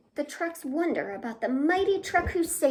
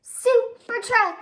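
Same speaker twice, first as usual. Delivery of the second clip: higher, louder, slow heroic announcement; dramatic reveal; 10 semitones higher, 10 dB louder, slower than usual. A narrator's reading. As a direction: unveil the hero with fanfare. Dramatic reveal in picture book.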